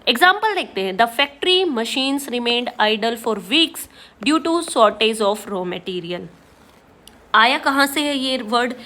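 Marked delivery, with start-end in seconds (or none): 1.0-6.3 very slow, word by word reading; slow example reading. Shown as a demonstration. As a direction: spell the sentence out slowly for students. Reads example sentence slowly. (धीरे-धीरे, एक-एक शब्द पढ़ना)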